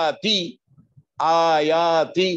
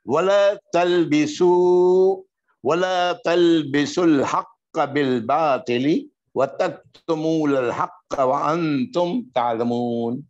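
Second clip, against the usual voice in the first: Quran recitation. Shown as a demonstration. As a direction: chant the verse in tajweed. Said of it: "میں پڑھتا ہوں". (قرآن کی تلاوت کے انداز میں)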